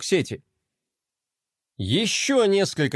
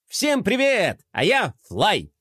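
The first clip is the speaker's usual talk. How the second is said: high, bouncy skater greeting; cheerful skater boy; 4 semitones higher, slower than usual. Acted. Skater toy greeting the blogger, upbeat and bright. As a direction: announce yourself like a cool skater kid.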